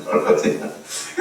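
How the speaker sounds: low breathy chuckle; short voiceless laugh. Real, not acted. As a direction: chuckle briefly after the joke. Laughs after the retold apology.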